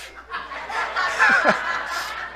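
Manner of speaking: high airy laugh; breathy amused laugh. Real, not acted. Laugh after bold claim.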